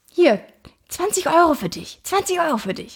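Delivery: hesitant, fumbling acted delivery. Retelling a man pushing twenty euros on her husband: retelling awkward hemming and hawing. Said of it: "der druckste so rum".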